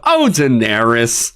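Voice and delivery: slow, hammed-up mock drama; stage performance. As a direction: stretch the name like an overacting player. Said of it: "it sounds like a stage performance".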